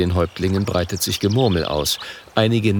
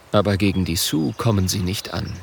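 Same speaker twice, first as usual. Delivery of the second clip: plain reading voice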